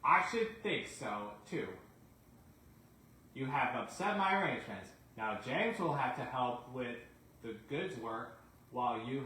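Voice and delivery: a hint of a disappointed railway chief; stern controller. Sir Topham Hatt scolds Donald.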